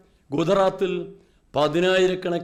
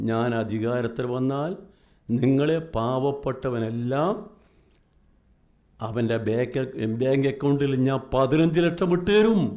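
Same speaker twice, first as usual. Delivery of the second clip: mocking Modi's promise; 7 semitones lower than usual. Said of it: "എന്താ പറഞ്ഞത്".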